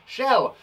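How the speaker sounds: Shell blended in one go, high and bright; teacher blending after segmenting. Shown as a demonstration. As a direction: pull the sounds together into Shell. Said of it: "There are three sounds".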